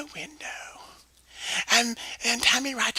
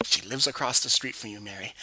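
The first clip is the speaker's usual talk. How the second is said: Jimmy voice; 12 semitones lower, 5 dB quieter than usual. Acted. Jimmy voice, low.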